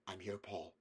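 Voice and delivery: a mother soothing her frightened son. A narrator's reading. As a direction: hush him like a mother calming a child. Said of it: "she said".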